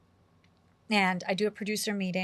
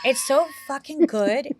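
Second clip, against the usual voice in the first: excited shout; 5 semitones higher, 7 dB louder, slower than usual. Real, not acted. Raving about the movie.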